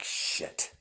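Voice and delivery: breathless whispered curse under the breath. Acted. Cornered girl at gunpoint curses in a whisper. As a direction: hiss it out, barely voiced. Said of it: "And she's like".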